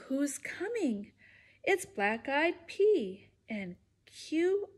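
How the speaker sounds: sing-song storybook read-aloud; lively read-aloud rhyme voice; reading to children. Acted. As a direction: bounce the rhymes for little listeners. Reads picture book to kids.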